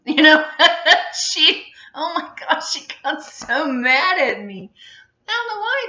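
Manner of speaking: breaking into real laughter mid-story; laughing. Real, not acted. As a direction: giggle out the memory of getting in trouble. Laughing while recalling mom's anger.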